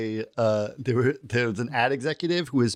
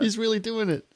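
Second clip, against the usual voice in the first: mock breathless narration, pitched up; excited narrator; 7 semitones higher than usual. Mocking the skit's narrator, pitched-up awed gushing. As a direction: gush it like an overexcited onlooker.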